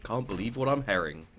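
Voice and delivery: "hearing" pronounced like "herring". Shown as a demonstration. Teasing a friend's typo, "hearing" said as "herring". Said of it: "you almost typed herring instead of hearing".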